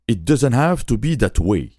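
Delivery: put-on slow English with a French accent. Host quoting the film line, in French-accented English. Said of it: "excusez mon accent".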